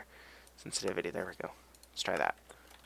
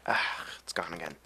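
whisper; 4 semitones lower, 5 dB quieter than usual. Real, not acted. Sneeze went away.

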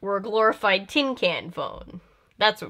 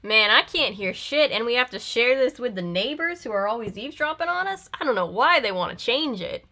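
put-on sarcastic southern accent; 3 semitones higher than usual. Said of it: "Does my southern accent get more pronounced the more sarcastic I get".

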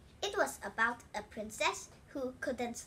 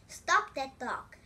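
slow, much louder shout; the king's desperate, louder order; 3 semitones higher, 9 dB louder, slower than usual. A narrator's reading. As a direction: bellow each word slowly. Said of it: "shouted the king".

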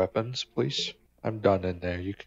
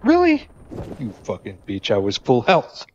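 outraged yelp; 3 semitones higher, 9 dB louder than usual. Real, not acted. Gamer killed at full health, shrieking in outrage. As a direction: scream at the unfair death.

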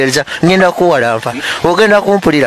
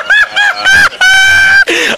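high squeaky laugh. Pretend.

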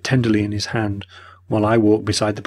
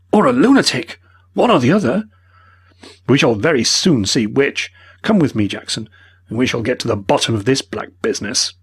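agitated; 4 semitones higher, 3 dB louder than usual. A narrator's reading. Mortimer to his friend, agitated and indignant. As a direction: reel in disbelief, then rally. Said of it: "agitated face".

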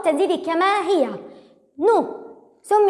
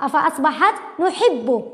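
slow syllable reading. Shown as a demonstration.

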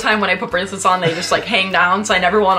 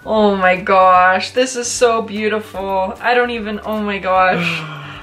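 slow, drawn-out, amazed; lingering over each oh my gosh in wonder; awestruck; slower than usual. Real, not acted. Holding up the bracelet, slow awestruck wonder.

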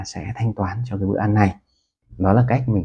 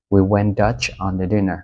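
slower "We went Dutch on the dinner", stress on "we"; slow model phrase; slower than usual. Shown as a demonstration. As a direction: read it out slowly for learners. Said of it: "có nghĩa là". (đọc chậm câu ví dụ, nhấn vào "we")

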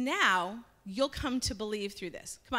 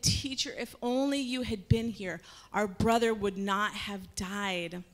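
tearful plea. Acted. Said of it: "she started crying".

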